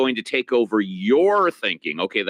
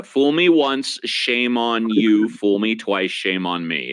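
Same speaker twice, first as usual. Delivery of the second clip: reciting quote; slower than usual. Retold or imitated. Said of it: "what was it that George Bush said".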